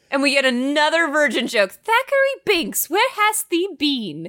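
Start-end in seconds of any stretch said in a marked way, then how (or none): 1.7-4.3 hammed-up period-drama complaint; mock scolding sister. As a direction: play a waiting sister's comic reproach. Mocks the spirit sister's old speech.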